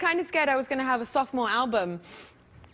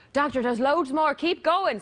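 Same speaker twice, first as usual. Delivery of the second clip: higher, urging Irish voice; Irish accent; 5 semitones higher, 3 dB louder, slower than usual. Acted. Guest as patient urging the doctor on, mock Irish accent. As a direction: put on Irish as the joke's patient, pitched up. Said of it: "the only accent I do worse than a Scottish is an Irish accent".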